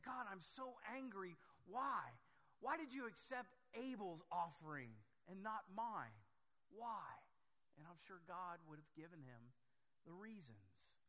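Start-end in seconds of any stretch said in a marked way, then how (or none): 0.0-7.1 a preacher acting out Cain shouting his grievance at God; mock angry yell at God. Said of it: "yelled at God and said".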